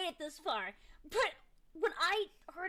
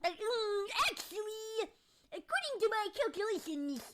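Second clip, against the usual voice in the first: nerdy know-it-all; 6 semitones higher than usual. Pretend. Repeats nerdy know-it-all bit.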